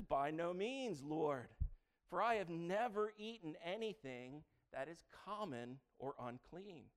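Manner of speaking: Peter protesting. Acted. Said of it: "He says".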